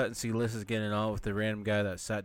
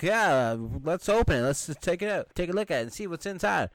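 high, loud mock enthusiasm; eager agreement; 7 semitones higher, 4 dB louder than usual. Explorers agreeing to open the tomb, mock eager. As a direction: imitate explorers keen to open it up.

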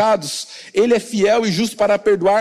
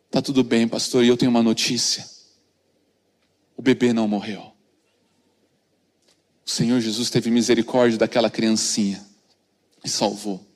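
much lower, softer intimate narration; soft tender sermon story; hushed storytelling; 12 semitones lower, 3 dB quieter than usual. A narrator's reading. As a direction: draw listeners close, almost confiding. Retelling the baby survived, hushed.

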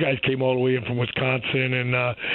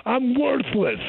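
higher, exaggerated self-berating; mock self-loathing; 9 semitones higher than usual. Acting out the buddy's negative self-talk, exaggerated. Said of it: "like your buddy tells himself".

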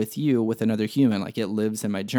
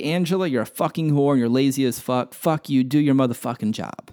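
venting at Angela, half-acted rage; mock angry outburst; 3 semitones higher than usual. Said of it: "if you could yell at this individual".

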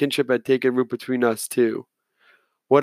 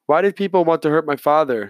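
wheezy little voice; 4 semitones higher than usual. Acted. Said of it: "in a wheezy little voice".

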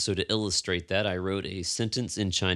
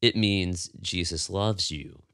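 It means Jesus loves you, slow and gentle; slow revelation. Retold or imitated. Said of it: "Let me interpret it for you".

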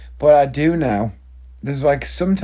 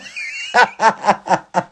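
high falling laugh; 8 semitones higher than usual. Real, not acted. Cracking up after making his point, a high laugh. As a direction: laugh off the rant.

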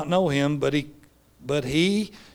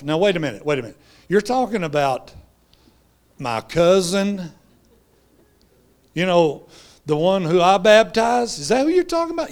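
rising to a high, louder indignant question; indignant John; 3 semitones higher, 5 dB louder than usual. Retold or imitated. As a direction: build from doubt to offended disbelief. John indignant about his cousin.

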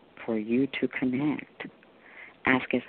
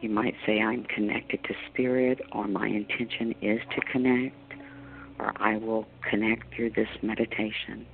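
guided meditation. Acted. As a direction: guide them gently into calm.

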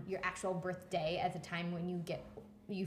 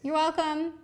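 calling out; 12 semitones higher, 11 dB louder than usual. Real, not acted. Calling to son offstage.

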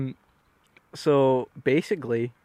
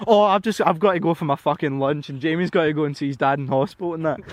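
nervous excuse; 3 semitones higher, 6 dB louder than usual. Retold or imitated.

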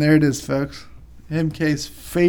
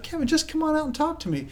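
mother-in-law calling; 12 semitones higher, 4 dB quieter than usual. Retold or imitated. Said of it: "And she's like".

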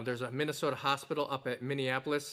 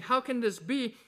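Mary's wondering question; 8 semitones higher than usual. Retold or imitated. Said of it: "so she's saying".

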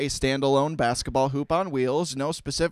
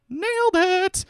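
much higher, loud victory cry; triumphant; 5 dB louder, slower than usual. Real, not acted. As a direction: celebrate nailing it. Proud after tongue twister read.

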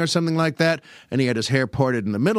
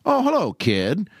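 lightly raised radio host voice; Jack Benny impression; 5 semitones higher than usual. Radio host answers the grown boy singer, lightly imitated. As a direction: imitate the host's stock greeting. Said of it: "it was still the same thing".

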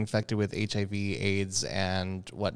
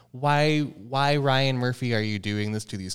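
anguished why. Retold or imitated. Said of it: "I'm thinking".

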